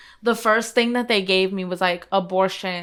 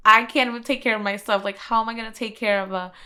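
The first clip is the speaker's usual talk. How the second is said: louder, faster rush of mild panic; retold panic; 2 semitones higher, 4 dB louder, faster than usual. Expectant mother retelling her call to Ruth, overwhelmed. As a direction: let the worry burst out, pushing the volume up.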